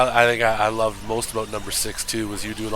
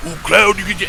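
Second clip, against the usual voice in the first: loud, higher Mister T voice; Mister T impression; 7 semitones higher, 5 dB louder than usual. Mocking the game's Barret as Mister T. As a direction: bellow it like Mister T. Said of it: "make him absolutely like a Mister T".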